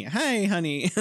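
a hint of Southern charm; sweet Southern lady. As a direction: greet like a friendly Southern receptionist. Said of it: "they just call you honey".

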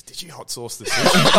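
barely holding back laughter; laughing through quote. Retold or imitated. Teammate retelling a hot sauce prank, laughing. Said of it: "He goes".

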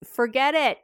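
breezy brush-off. Shown as a demonstration. Parent brushing off a teen's fear, quick breezy reassurance. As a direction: rattle off empty comfort. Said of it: "when you give those".

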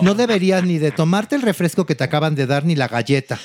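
hammed-up sanctimonious put-down; imitated condescending diva. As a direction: play a patronizing star giving unwanted counsel. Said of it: "Paulina y le dice".

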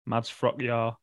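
Frockjar said with a y sound, "frock-yar"; pronunciation demo. Shown as a demonstration. Recalling how the player says it, Frockjar as "frock-yar". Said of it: "I watched him pronounce it before".

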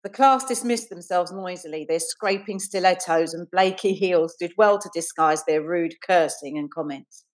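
measured, deliberate read-aloud; reading prose aloud, unhurried; story narration. A narrator's reading. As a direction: narrate the scene with careful phrasing. Reads her story aloud.

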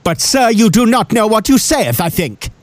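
hammed-up, high theatrical declaiming; mock a stagey classical actor; Shakespearean stage voice. Shown as a demonstration. Demonstrating A-level theatre Shakespeare acting, mock declaiming. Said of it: "I'm gonna try and do it".

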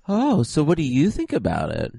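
high-pitched voice. Pretend. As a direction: play along in a lightly high-pitched voice. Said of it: "like, a high-pitched voice".

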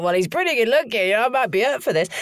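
high-pitched, giggly inner thought; amused, tempted. Retold or imitated. Amused at her own thought.

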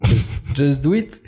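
"just do it" drawn out slowly in a put-on English accent. Shown as a demonstration. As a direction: show off your English on "Just, just do it". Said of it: "Vas-y".

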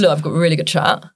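low, lightly put-on voice; low, talking out of half the face; Olivia Bentley. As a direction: go really low for the impression. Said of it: "She just goes really low".

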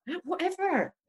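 laughing dismissal. Retold or imitated. Retold dismissive quip.

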